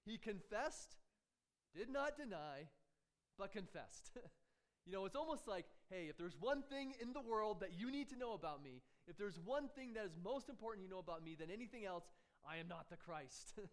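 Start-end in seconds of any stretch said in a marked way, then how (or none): 5.9-13.6 insistent acted disclaimer, settling onto the final statement; emphatic denial. John tells questioners the one thing to know, emphatic denial. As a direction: make the point as if it matters most. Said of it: "he emphatically denies it".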